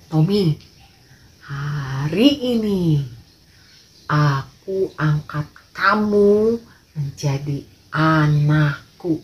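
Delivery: slow, deliberate fatherly announcement; a lightly voiced father, slow and weighty; solemn father. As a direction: lay it down slowly, like a kind rich man giving his word. Father solemnly adopts Tommy.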